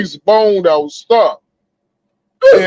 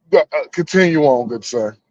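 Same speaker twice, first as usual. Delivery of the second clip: talking around a lit cigarette; words muffled by a cigarette between the lips; cigarette in mouth; 5 semitones lower, 3 dB quieter than usual. Real, not acted. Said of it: "let me light a cigarette for this motherfucker".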